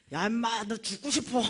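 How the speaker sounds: loud mock threat; growing annoyance of a roused drunk; imitated drunk threat. Drunk man threatening the man who woke him, annoyed. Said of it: "술이 이만큼 된 선생님".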